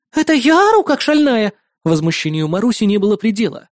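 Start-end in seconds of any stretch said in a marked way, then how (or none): 0.1-1.5 high, louder indignant retort; outraged neighbour. Acted. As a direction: throw the insult back.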